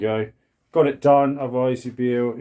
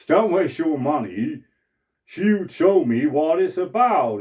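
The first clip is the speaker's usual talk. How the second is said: Jeff Rowe voice; 3 semitones higher, 4 dB louder than usual. Retold or imitated. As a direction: tell the joke slowly in a fond comedian impression, milking each line. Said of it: "I'll try doing it in a Jeff Rowe voice".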